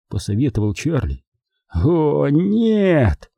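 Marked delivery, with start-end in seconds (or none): 1.7-3.3 long, high wail of despair; heartrending moan. A narrator's reading. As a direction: moan it out as if all is lost. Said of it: "душераздирающе простонал дядя Паттон". (душераздирающий стон)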